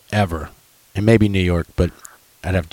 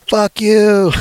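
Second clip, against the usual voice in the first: high-pitched heckle, imitating a rowdy bettor; mock scream; 12 semitones higher than usual. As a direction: yell it mockingly across an arena, pitched way up. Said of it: "screaming at the other people".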